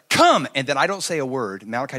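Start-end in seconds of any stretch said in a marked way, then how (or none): 0.1-0.5 put-on loud, high toddler command; three-year-old's power voice. Little boy orders the big dog to come, mock commanding shout. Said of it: "Malachi's like".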